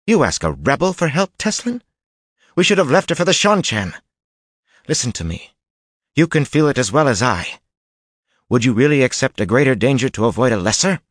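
high, loud, scornful rebuke. A narrator's reading. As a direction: cut her down with contempt. Jolene scornful argument.

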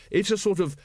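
earnest lad slowly getting the joke; puzzled Carrot. Acted. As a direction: work it out word by word. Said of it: "he said eventually".

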